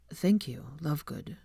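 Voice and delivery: whispered thanks; quiet. A narrator's reading. Draco thanking Luna, whispered softly. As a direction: say it barely aloud, moved. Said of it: "he said quietly".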